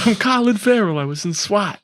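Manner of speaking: high-pitched, put-on Irish brogue; mock Irish accent. Joking as the actor naming his film, mock Irish accent. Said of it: "He's Scottish or something".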